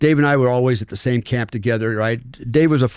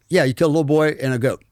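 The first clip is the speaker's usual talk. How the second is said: cavalier; faster than usual. Retold or imitated. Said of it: "he was really cavalier about it".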